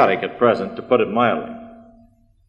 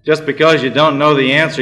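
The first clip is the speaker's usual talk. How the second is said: higher, louder yell from a beaten lion; 4 semitones higher, 4 dB louder than usual. Retold or imitated. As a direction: shout it out indignantly. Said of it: "yelled out".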